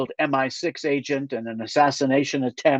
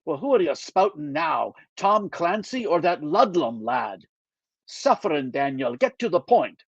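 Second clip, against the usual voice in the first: put-on lightly Scottish older friend, dry; a mild Scottish brogue, wry; gentle Scottish lilt, teasing; Scottish accent. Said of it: "he still has a Scottish accent".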